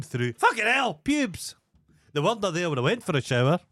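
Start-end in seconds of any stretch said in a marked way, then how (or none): 0.3-1.6 high-pitched amazed exclamation; retold shock, high and incredulous; astonished discovery. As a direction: re-enact startled disbelief, pitch shooting up.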